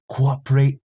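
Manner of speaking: drawn-out mock British punk accent; slow, hammed-up British villain accent; a punk singer. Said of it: "he sounded like Johnny Rotten".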